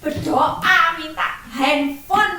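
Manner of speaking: lightly voiced child nagging; pleading child. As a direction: beg the teacher like a little kid. Child asks teacher for phone.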